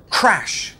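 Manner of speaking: sudden, splashy "crash"; cymbal crash. Shown as a demonstration. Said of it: "a cymbal going".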